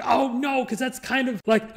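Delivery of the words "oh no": sudden high, loud alarm at a classmate's answer; a raised cry of dismay. Retold or imitated. Remembering the spelling bee answer, dismayed loud cry. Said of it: "I was like".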